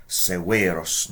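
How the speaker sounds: Severos with the second syllable drawn out; slow Severos, holding a long E in the middle. Shown as a demonstration. Latin teacher showing the long vowel, long E in Severos. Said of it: "Notice the long".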